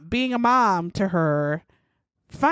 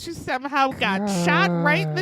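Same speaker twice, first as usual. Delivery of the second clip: whispered secret; 2 semitones higher than usual. Retold or imitated. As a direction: hush it like a confession. Patty quoted explaining the shooting.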